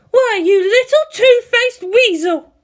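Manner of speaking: furious hissed whisper, loud breath; hissed fury at her sneaky sister; angry whisper. Acted. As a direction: spit the insult under her breath.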